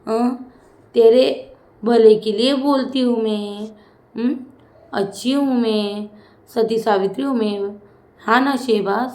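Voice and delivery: sing-song taunting copy of a housemate; mock Tanya. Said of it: "Ashnoor ने भाई तान्या की acting की और ज़बरदस्त वाली की".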